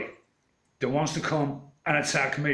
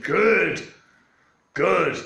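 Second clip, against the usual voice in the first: defiant retort; 3 semitones higher, 6 dB louder than usual. Retold or imitated. Defiant reply to policeman.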